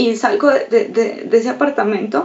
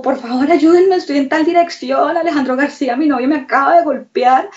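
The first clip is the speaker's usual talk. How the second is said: higher-pitched plea, only half shouted; mild retold yell; 3 semitones higher than usual. Victim retelling her emergency call for an ambulance, mild retold yell. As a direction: re-enact a frantic call for help without full volume. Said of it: "yo creo que yo estaba gritando".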